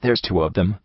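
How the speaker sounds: soft despairing moan, rising at the end. A narrator's reading. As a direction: moan it, a touch of disbelief. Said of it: "the blue buck moaned in despair".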